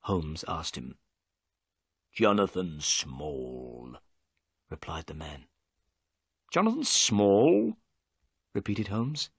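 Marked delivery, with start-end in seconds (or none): 2.1-4.0 gruff prisoner. A narrator's reading. Prisoner gives his name. 6.5-7.8 questioning repeat. A narrator's reading. Holmes repeats name questioningly.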